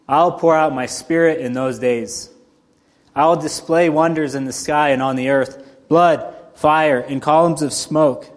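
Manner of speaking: steady, measured Bible reading; scripture reading. Acted. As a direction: read the passage with weight. Reads scripture passage aloud.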